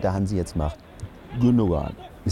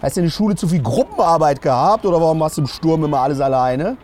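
louder, higher mock scolding; scolding coach; 4 semitones higher, 3 dB louder than usual. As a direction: tell the player off like a fed-up coach. Scolding Musiala in cabin.

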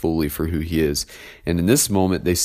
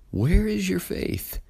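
Jesus' question, read high; 13 semitones higher, 4 dB quieter than usual. Acted. Jesus questions disciples in reading.

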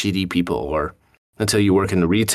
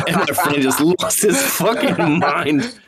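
high, slow words through laughter; laughing while talking; 7 semitones higher, slower than usual. Real, not acted. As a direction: tell the punchline while cracking up. Laughing while telling the punchline.

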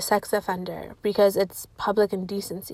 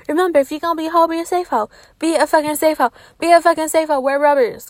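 emphatic advice; 6 semitones higher, 5 dB louder, faster than usual. Real, not acted. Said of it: "lecturing viewers on safety".

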